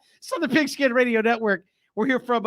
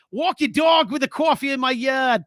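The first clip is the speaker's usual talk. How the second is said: a mock Boston accent read off a text; playful Boston accent; 3 semitones higher than usual. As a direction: try the line in a light Boston accent. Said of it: "Do that in my Boston accent".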